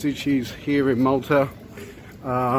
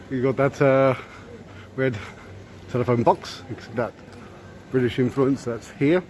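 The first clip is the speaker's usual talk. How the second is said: muffled. Real, not acted. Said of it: "Sorry if my voice is a little muffled".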